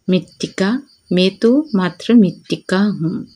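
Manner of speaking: deliberate, evenly paced verse reading; poem recitation. Shown as a demonstration. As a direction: read the poem out steadily, pausing after each phrase.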